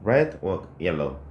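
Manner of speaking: slow, every word spaced; slow model sentence. Shown as a demonstration. Teacher reading the answer for students to write. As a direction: dictate the sentence slowly. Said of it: "이렇게 써주시면".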